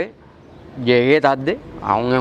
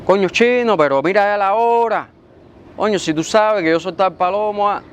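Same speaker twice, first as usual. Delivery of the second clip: higher-pitched, exasperated telling-off; acting out an indignant reprimand; reproachful scolding; 6 semitones higher than usual. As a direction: scold a latecomer with raised pitch. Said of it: "ya no son las formas".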